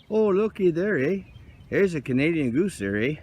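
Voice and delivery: lightly hammed-up Canadian accent with a tagged-on eh; mock Canadian accent. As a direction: play a goofy Canadian hoser, Canadian accent. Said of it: "That's Doug McKenzie goose there".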